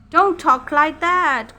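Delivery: a mild plea to stop; cried out. Acted. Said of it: "cried Bertha".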